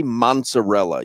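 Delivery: "mozzarella" with an N slipped in, "MON-za-rella"; mispronounced mozzarella. Retold or imitated. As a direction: say "mozzarella" as "mont-sa-RELL-a". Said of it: "I notice you say".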